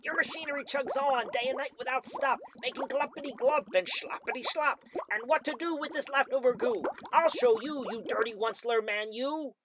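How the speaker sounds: high, loud, indignant creature voice; angry Lorax. A narrator's reading. The angry Lorax scolds the Onceler, high snapping voice. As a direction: snap at him, dander up. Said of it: "snapped the Lorax, his dander was up".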